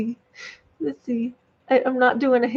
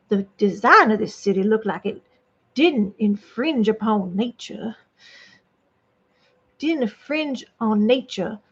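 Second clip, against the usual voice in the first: lightly played Southern belle narration; 2 semitones lower than usual. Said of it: "Yes, I'm a Southern belle".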